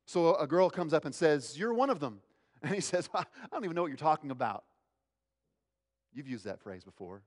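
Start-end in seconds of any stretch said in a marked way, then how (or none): 1.6-2.2 put-on high-pitched accusation from a servant girl; accusing. Servant girl to Peter by the fire, accusing. 3.1-4.6 brushing it off quickly; fast, dismissive disclaimer; quick denial. Acted. Peter answering the servant girl, quick denial.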